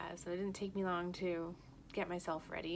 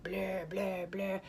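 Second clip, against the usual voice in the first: whispered blur sound; much slower than usual. Retold or imitated. Imitating head feeling.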